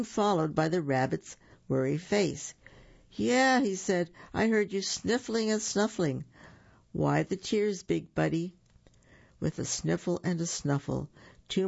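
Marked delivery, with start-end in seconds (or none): 3.1-3.6 bunny voice. Acted. 4.3-8.6 worried bunny. Acted.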